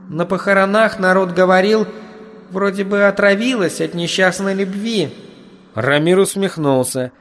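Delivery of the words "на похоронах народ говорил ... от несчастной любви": put-on high little demon-girl voice; demon servant. A narrator's reading. Demon telling the master funeral gossip, high-voiced.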